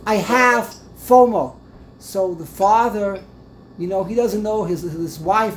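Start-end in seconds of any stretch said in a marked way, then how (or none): 0.1-1.6 louder and slower, spelling it out; louder repeat. Retold or imitated. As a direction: repeat it louder and slowly so they hear.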